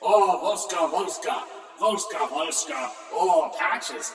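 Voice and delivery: Volska chanted in a light mock Russian accent; hint of Russian accent. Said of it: "in their Russian ways".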